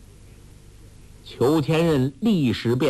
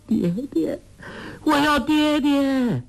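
crying for father. A narrator's reading. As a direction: wail for her father again. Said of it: "哭叫". (哭喊着要爹爹)

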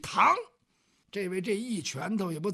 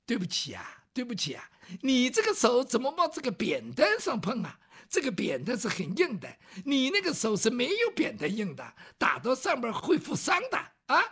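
put-on southern-accented scholar; 2 semitones higher than usual. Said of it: "说话带点南方味儿".

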